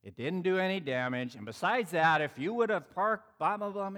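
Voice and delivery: mildly testy comeback, building in pitch; retold irritated retort, rising into blah-blah. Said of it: "I'm already irritated, and I go".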